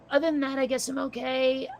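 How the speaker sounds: a touch hoarse, voice fading. Real, not acted. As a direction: speak with a slightly worn-out voice. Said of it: "I'm losing my voice a smidge".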